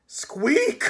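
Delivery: tiny high squeak; high rodent squeak; rat squeak. Acted. Death of Rats squeaks.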